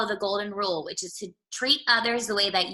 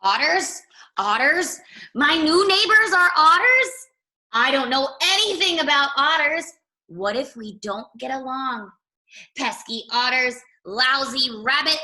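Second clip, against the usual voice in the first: a higher, louder rabbit, startled and fretting; surprised rabbit; 4 semitones higher, 5 dB louder than usual. Acted. Rabbit hears his new neighbors are otters, high startled voice. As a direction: squeak out the shock at new neighbors.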